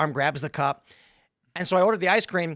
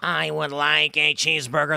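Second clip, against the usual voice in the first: damaged voice; slower than usual. Pretend. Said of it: "You're gonna be like".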